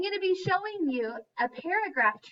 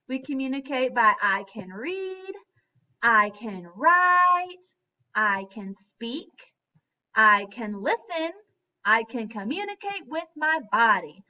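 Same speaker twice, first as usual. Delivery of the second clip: call to echo; 2 semitones lower, 4 dB louder than usual. Shown as a demonstration. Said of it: "Let's echo this".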